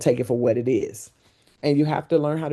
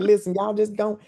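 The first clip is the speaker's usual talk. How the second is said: imitating Van; 7 semitones higher than usual. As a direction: lean into his accent on the last word. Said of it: "that's how he talked".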